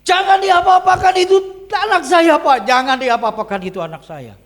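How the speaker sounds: high, loud cry to the officer; pleading shout. Retold or imitated. Woman begs police not to harm her child, pleading shout. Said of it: "kata tante ini".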